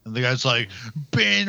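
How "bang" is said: higher-pitched vocal guitar riff; mouthed air guitar. Retold or imitated. Retelling the band rocking out, imitated guitar lick. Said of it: "air guitaring".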